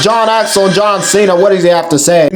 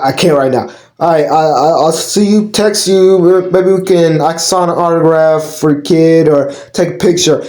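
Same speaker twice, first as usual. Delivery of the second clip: cocky wrestler pretending to be ill; fake-sick wrestler; 4 semitones lower than usual. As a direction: lower voice, playing sick to skip the match. Wrestler faking sickness to dodge match.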